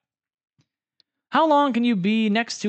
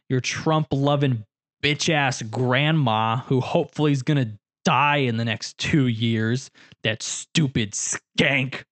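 drawn-out sneering insult; slow contemptuous; 3 semitones lower, slower than usual. Pretend. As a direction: spit each word out slowly.

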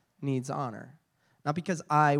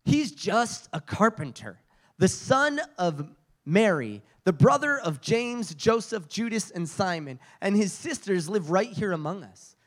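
scoffing; 2 semitones higher than usual. Acted. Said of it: "Then they scoffed".

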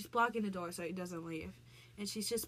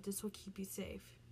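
put-on soft whisper of a child's promise; whispered line; 6 dB quieter than usual. Voicing the daughter handing her dad the locket, a soft whisper. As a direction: breathe it out in a whisper.

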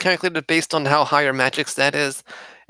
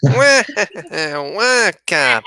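Waluigi wah; 2 semitones higher, much slower than usual. Pretend. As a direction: squeal it like Waluigi. Waluigi cry joke.

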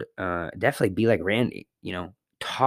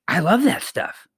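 cashier quote; 9 semitones higher than usual. Retold or imitated. Cashier Randy quoted fondly.

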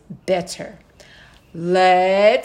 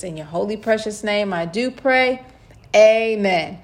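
prayer. Acted. Leads an opening prayer.

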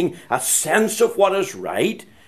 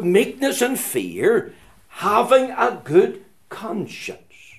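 emphatic preaching; 6 semitones higher, 3 dB louder than usual. Acted. Preaches with measured force.

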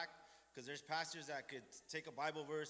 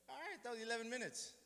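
a higher, wry pastor voice; quoting the pastor; 9 semitones higher than usual. Retold or imitated. Pastor telling him the sermon ran short, mock dry voice. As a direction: lightly play the pastor checking the clock.

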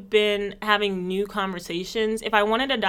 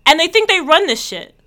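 loud, higher mock South London bloke; loud mock British tough talk; South London accent; 6 semitones higher, 10 dB louder than usual. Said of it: "I'm from South London".

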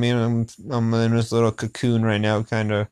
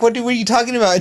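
retold girl's reply; 10 semitones higher, much faster than usual. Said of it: "And she goes".

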